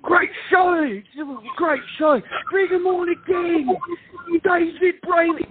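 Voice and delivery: high, chirpy mock host voice, with the name drawn out slowly; mock cheery cruise director. Cruise director Stu cheerfully calling the singer back, in a high mock emcee voice. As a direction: hams up an oblivious emcee gushing into the mic. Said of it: "he goes".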